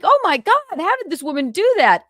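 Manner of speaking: high, emphatic astonished exclamation; retold amazement. Host retelling their reaction to the woman's video, amazed. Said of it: "And I was like".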